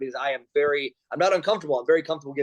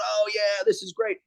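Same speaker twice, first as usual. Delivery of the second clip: mock awe; 6 semitones higher than usual. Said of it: "sitting around going".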